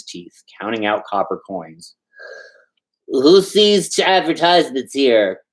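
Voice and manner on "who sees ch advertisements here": shouted question. Acted. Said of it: "Kovalyev shouted".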